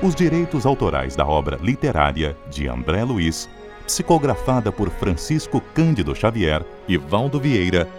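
normal talking voice

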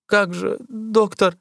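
high, quavering plea; trembling voice. A narrator's reading. Dying man begs the doctor, high and trembling. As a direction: voice shaking with dread. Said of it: "спросил он дрожащим голосом".

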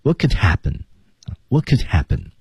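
"could" reduced to kuhd in "what could happen"; "what could happen" with a short, unstressed "could"; weak "could". Shown as a demonstration. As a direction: let "could" slip by with an uh vowel. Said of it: "乌读成呃".

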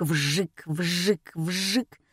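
repeated zip of a saw; imitated sawing sound. A narrator's reading. Narrator mimics the saw on the box, rhythmic. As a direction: imitate a saw going back and forth. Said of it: "Послышался противный звук".

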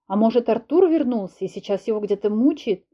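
ordinary delivery, nothing marked

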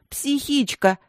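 high, sharp yelled insult; a girl screaming an insult at her friend; shouted insult. Acted. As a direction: yell it at her in fury. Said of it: "крикнула Анюта".

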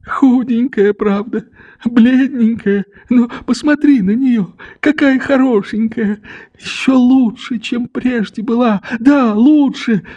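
put-on hurried childlike smile. A narrator's reading. Old father admiring his returned daughter, smiling and eager. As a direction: rush the praise with a tender smile. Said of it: "проговорил он с торопливою, как будто детскою улыбкою".

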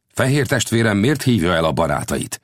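mildly surprised question; puzzled. Acted. Chief asking his white brother, mildly puzzled. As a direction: ask with a touch of wonder. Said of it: "kérdezte a törzsfőnök csodálkozva".

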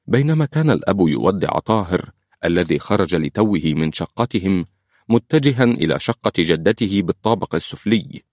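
ordinary delivery

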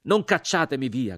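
loud plea; crying out. A narrator's reading. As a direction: call out pleading.

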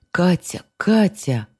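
high frantic calls for Katya; shouting name. A narrator's reading. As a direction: call out in panic. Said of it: "слышались крики".

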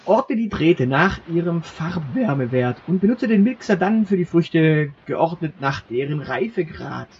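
grand announcer voice for the finale; game master finale. Acted. Game master presenting the finale puzzle to the player, grandly announcing. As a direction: present the puzzle like a quiz host.

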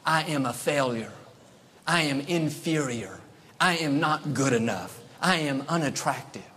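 downcast self-talk. Retold or imitated. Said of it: "I can imagine some of her I ams".

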